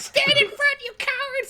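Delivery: shrill, very high, loud yell. Facing a giant snake monster, Alistair yells at the others, high-pitched yell. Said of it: "yelling in a pitch higher than he normally talks".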